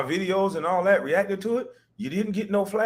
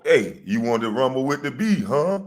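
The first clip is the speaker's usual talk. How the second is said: A rapper's line; 2 semitones lower than usual. Retold or imitated. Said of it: the speaker described it as how a rapper would say it.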